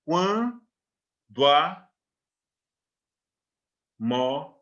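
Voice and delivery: "quando a" slowly drawn out, the o and a glided into one syllable; "quando a" run together in a single slow impulse; vowels fused. Shown as a demonstration. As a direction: stretch "quando a" and blend the final o into the a. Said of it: "Você vai perceber isso na fala".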